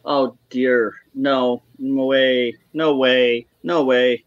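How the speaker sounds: low, slow refusal; dismayed disbelief. Real, not acted. Guest reacting to news about Trump, dismayed disbelief. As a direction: let each denial sink, slowly.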